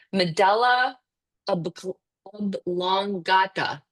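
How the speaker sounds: halting try at "medulla ob-, oblongata", broken after "ob"; careful pronunciation attempt. Real, not acted. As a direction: stumble on "ob-", restart and stretch out "oblongata". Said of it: "see if I can pronounce this right".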